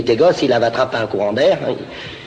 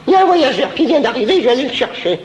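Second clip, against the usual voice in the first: excited high voice; 10 semitones higher, 4 dB louder than usual. Acted. Character excited, laughing, high.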